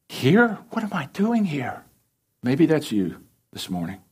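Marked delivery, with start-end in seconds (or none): 0.1-1.8 high, pained cry of the lost son; lament. Acted. The prodigal son in the pigsty, crying out high in despair.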